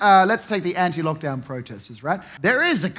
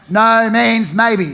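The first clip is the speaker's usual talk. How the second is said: slow punchline; 2 semitones higher, 6 dB louder, much slower than usual. Acted. Punchline said slowly, loud.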